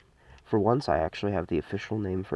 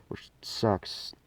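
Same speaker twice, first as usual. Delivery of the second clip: whispered aside. Real, not acted. Aside about copying accents.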